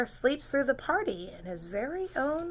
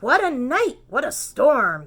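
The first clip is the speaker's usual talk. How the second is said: tag; 3 semitones higher, 7 dB louder than usual. Acted. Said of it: "Mole mutters".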